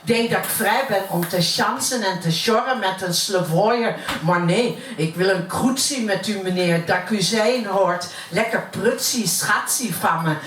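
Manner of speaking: poem recited in plat Utrechts dialect; broad Utrecht accent. Acted. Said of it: "ik uit Utrecht kom". (plat Utrechts accent)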